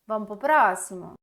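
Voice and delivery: normal talking voice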